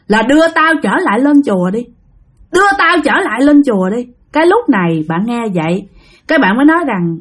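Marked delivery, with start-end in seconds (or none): 0.1-4.1 higher, insistent plea-like order; lightly voiced ghost making a demand; demanding spirit. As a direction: press the same demand twice, pitched up. Spirit demands return to temple.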